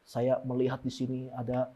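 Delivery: low, soft mysterious voice; hushed mock seer. Preacher mocking a prophetic minister, hushed. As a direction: play a prophet seeing visions, softly.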